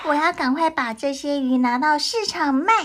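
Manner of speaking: delighted fisherman cheering; excited. Acted. Joy at catching fish.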